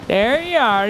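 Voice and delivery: put-on a light Scottish or Irish accent, punchy. Taunting the rogue enemy he found, light Scottish accent. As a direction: slip into a jokey Scottish accent. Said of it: "Don't know why I got Scottish".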